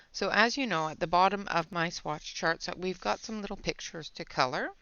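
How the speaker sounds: breathless, catching her breath. Real, not acted. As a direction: talk while short of breath. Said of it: "I'm out of breath today".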